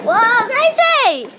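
slow, loud surprised call; startled whoa. Real, not acted. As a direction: cry out in surprise. Startled, drawn out.

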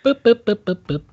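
quick run of mock button boops; playful boops. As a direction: boop like clicking through channels. Imitates noise of changing streams.

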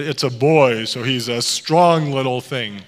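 lightly mimicked hearty deep voice; slow and solid, putting weight on a boy's strength; a hint of mock-manly boom. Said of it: "her voice dropped down really deep".

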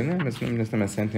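NEM pushed high and rising; emphatic denial. Retold or imitated. Teacher voicing the rabbi's firm denial, stress on NEM.

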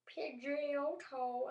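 high, drawn-out creature call; Pokemon cry. Acted. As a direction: call out the name slowly like a battling Pokemon. Voicing Pokemon crying its name.

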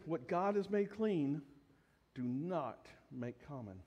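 slow, low, grave divine voice; stern voice of God. Retold or imitated. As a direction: let the words fall heavy and final, as God. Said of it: "the tone of the voice changed".

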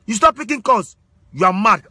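normal talking voice

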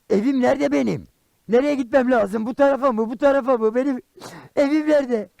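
high-pitched, bewildered pleading; comic helpless wailing; theatrical panic. Acted. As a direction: plead for help, lost in the dark. Lost in the dark, asks children.

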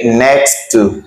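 NEXT TO slowly, word by word; teacher's careful NEXT TO; slow model pronunciation. Shown as a demonstration. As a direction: separate NEXT from TO. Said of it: "we say next to".

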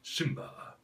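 low, soft, slow throaty menace; Darth Vader voice. Shown as a demonstration. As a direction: rumble it from the back of the throat. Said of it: "from the very back of the throat".

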